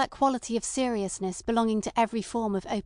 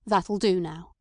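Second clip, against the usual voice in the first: hurried; 2 semitones lower, 4 dB louder, slower than usual. A narrator's reading. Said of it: "interrupted Chief Inspector Heat hurriedly".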